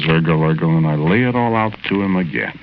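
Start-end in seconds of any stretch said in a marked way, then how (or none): 0.0-0.8 gagged gurgle. Retold or imitated. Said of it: "all he can say is".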